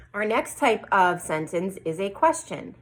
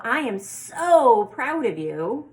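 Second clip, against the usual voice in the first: exclamation; 4 semitones higher, 5 dB louder, slower than usual. Shown as a demonstration. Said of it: "would get an exclamation mark".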